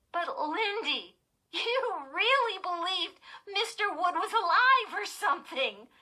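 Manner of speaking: put-on laughing, teasing girl; laughing tease. A narrator's reading.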